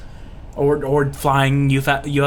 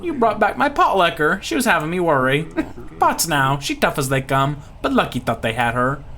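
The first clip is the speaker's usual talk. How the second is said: put-on Louisiana accent; 2 semitones higher than usual. Pirate greeting whoever returned his dog, Louisiana accent. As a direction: play a folksy Louisiana local. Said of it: "I cannot do a Louisiana accent".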